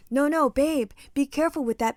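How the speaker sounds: sweet, even, innocent version; a gentle, reasonable babe, nothing harsh; mock calm retelling. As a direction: imitate him pretending he said it nicely. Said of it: "Suddenly the retelling is calm and nice".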